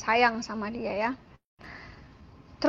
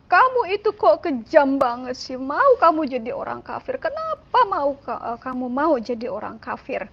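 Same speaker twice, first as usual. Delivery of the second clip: imitating an upset mother, raised pitch in bursts; tearful mother; 4 semitones higher, 4 dB louder than usual. Mother pleading with child leaving Islam, mock-tearful and upset. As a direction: reenact a mother's distressed reproach. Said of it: "dia cuma bisa nangis, dia bilang".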